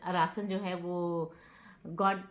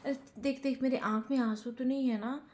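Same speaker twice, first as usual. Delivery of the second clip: acted quote; 6 semitones higher than usual. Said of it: "फिर बोला".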